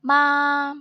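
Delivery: second-tone मा, long and rising. Shown as a demonstration. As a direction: stretch मा with an upward glide. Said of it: "rising tone कहते हैं".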